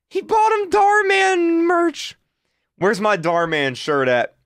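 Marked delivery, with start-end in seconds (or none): 0.1-2.2 high, slow, amused disbelief; still laughing. Real, not acted. Repeating the merch gift to viewers, still giggling. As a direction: come down from the laugh but stay high.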